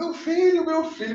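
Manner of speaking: mock very high, tearful, wailing sobbing shout. Retelling a mother crying and shouting for her son: imitating crying and shouting. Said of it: "chorando, gritando, gritando".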